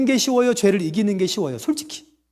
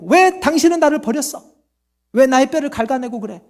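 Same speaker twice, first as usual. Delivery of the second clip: 따지는 환자; 3 semitones higher than usual. Acted. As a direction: act out an indignant patient demanding answers. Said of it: "외과 의사한테 따지면 돼요". (외과 의사에게 따지는 흉내)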